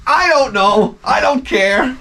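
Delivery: lightly voiced idiot shrugging it off. Idiot answering the guy, carelessly. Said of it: "He's like".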